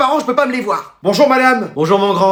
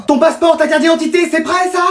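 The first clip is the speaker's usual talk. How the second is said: higher, pressing questions; anxious checking; 5 semitones higher than usual. Acted. Parent checks child's travel papers, frantic.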